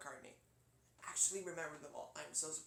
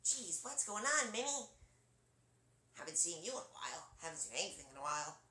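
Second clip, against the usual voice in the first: lightly voiced wisecracking cartoon brother; Yakko Warner. Shown as a demonstration. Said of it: "his voice is sort of like this".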